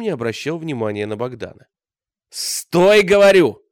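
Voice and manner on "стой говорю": loud high shout. A narrator's reading. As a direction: yell him to stop. Bogdan yelling after the Cossack. (кричит вслед, громко и высоко)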